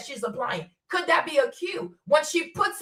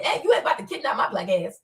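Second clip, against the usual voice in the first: defiant retort; 7 semitones lower, faster than usual. Pretend.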